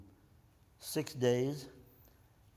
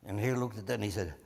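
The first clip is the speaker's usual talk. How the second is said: usual speaking voice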